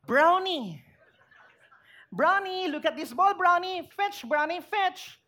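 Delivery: put-on child coaxing the new puppy to fetch, playful; child calling dog. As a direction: call the puppy like an eager kid.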